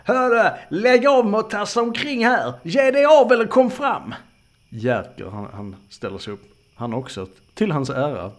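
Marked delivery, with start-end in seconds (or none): 0.0-4.1 high, loud challenge; shouting. Acted. Camper to unseen prowler in the woods, shouting. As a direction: yell it out into the dark, pitched right up. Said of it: "Och så skriker jag".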